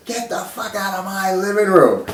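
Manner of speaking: high, imitated furious roommate; roommate's parting shot, lightly hammed; mock angry order. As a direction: spit it out as a put-on rant. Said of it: "he goes".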